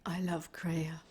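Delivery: a soft, unvoiced lie; forced whisper. Lady lying to Riker under threat, forced whisper.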